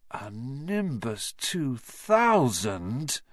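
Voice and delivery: slow, longing moan; envious moan. Acted. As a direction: drag it out with envy. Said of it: "Ron moaned enviously".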